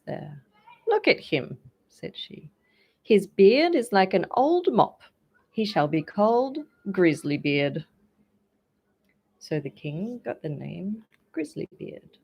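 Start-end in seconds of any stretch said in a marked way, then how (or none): 0.9-7.9 much higher, louder scornful princess; laughing mockery. A narrator's reading. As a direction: jeer at the king's beard. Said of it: "she laughed more than all".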